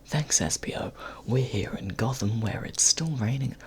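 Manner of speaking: close-mic whispered intro; ASMR whisper. Acted. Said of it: "ASMR Power Hour".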